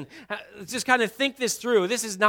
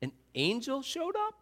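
higher, rising in disbelief on "up"; incredulous question; 6 semitones higher, 7 dB quieter than usual. Retold or imitated. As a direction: repeat her words in shock. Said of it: "Did you just say".

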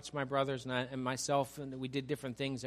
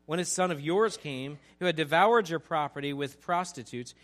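louder, spitting out "yours"; accusing older brother; 3 semitones higher, 8 dB louder than usual. Retold or imitated. Older son disowning his brother before father, loud and bitter. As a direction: lean hard on "yours" with contempt.

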